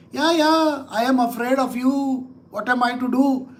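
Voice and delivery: lightly mocking show of fear; pretend, not very hard, to be afraid; feigned fear. Lord teasing the demon enemy, feigned fear. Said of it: "It's a feigned way".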